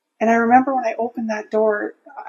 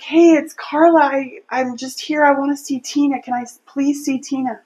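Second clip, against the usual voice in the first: higher voice, retold plea; pleading call; 4 semitones higher, 5 dB louder than usual. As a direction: open loud and high, then ease into asking. Calls to hostile stranger inside house.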